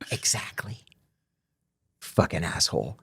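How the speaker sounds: whispered under the breath. Retold or imitated. Inmate leaving the office whispers an aside. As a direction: say it so he can't hear.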